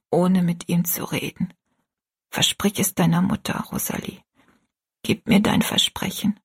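lightly voiced ailing mother, breath fading at phrase ends; a mother's tender parting words, some half-whispered; gentle dying mother.

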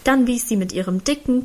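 ordinary delivery

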